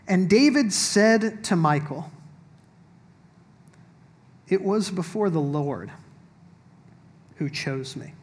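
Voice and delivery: slow, deliberate reading of the verse; a hint of pulpit reading; scripture reading. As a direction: let the line land simply. Reads verse twenty-one aloud.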